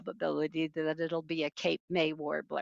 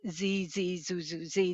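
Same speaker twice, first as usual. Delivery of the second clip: softer buzzy birdsong imitation; buzzy warbler song; 5 dB quieter than usual. Shown as a demonstration. Teacher contrasts mnemonic with real song, buzzy. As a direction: quietly sound out buzzy zee and zoo notes. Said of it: "does not sound buzzy like".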